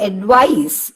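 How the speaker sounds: "അഡ്വൈസ്" with a long, stressed വൈസ്; light അഡ്, weighted വൈസ് in "അഡ്വൈസ്"; stress on second syllable. Shown as a demonstration. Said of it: "വൈസിനാണ് ഉച്ചാരണം". ("അഡ്വൈസ്" എന്നതിൽ വൈസ് ഊന്നിപ്പറയുക)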